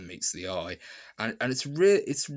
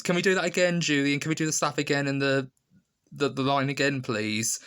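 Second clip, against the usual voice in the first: higher, louder voice asking for a retake; imitating an actor; 5 semitones higher, 4 dB louder than usual. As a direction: act out an actor calling for another take. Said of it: "and he goes".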